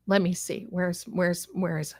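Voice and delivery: soft unvoiced whisper to herself. Real, not acted. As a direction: breathe it out while searching. Whispering to herself while searching.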